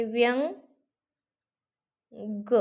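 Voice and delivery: व्यंग drawn out very slowly, nasal ङ held; slow demo pronunciation. Shown as a demonstration. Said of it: "याच्यामध्ये काय होतंय". (व्यंग सावकाश, अनुनासिक लांबवून)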